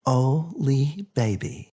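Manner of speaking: a mother cooing to her grown son; tender mother. Acted. Mom greets son in dream.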